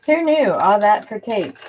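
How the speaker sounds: high, loud amazed exclaim; surprised. Real, not acted. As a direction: marvel at the result. Amazed at result.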